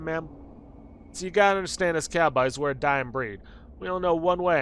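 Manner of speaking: folksy cowboy, pushed up and emphatic; old cowboy. Acted. Old cowboy explaining his dying breed to ma'am, folksy cowboy voice. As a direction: play a regretful old cowboy of the West.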